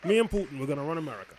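high, loud blustering Trump voice; Trump impression. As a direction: play Trump hyping his supporters. Voicing Trump on a Zoom call.

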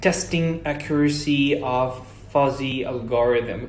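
slow, effortful attempt at an English accent; tongue-tangled English accent. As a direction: imitate a learner labouring over an English accent. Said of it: "تحس إنه اللسان بيتلخبط شوية".

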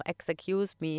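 "Excuse me" with an extra vowel, "ex-e-cuse me"; inserted vowel. Retold or imitated. Giving an English learner slip, "Excuse me" with added vowel. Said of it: "dass das immer so eingebaut wird".

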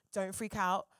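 low-key, matter-of-fact heads-up; composed agent passing on news; calm agent. Retold or imitated. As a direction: say it evenly, playing it down. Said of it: "my agent was like".

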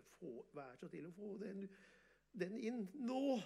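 building from calm plea to a high, loud, slow call; retold shout. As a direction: call the horse in, rising to a shout. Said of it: "roper jeg på han stallmesteren". (ropende, høyere og høyere mot slutten)

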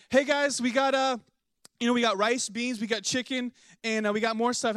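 high, loud party host announcing the food; imitating an excited friend's high call.

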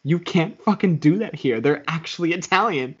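mildly exasperated, rising mock complaint; mock scolding. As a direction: imitate an annoyed friend scolding you. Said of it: "she would get mad at me".

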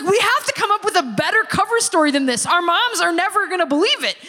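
acted-out skeptical best friend; incredulous friend. Best friend doubting the cover story, incredulous.

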